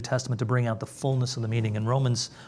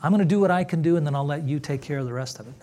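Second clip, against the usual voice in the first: mock pious bargainer; 3 semitones higher, 3 dB louder, much faster than usual. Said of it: "Have you heard that before".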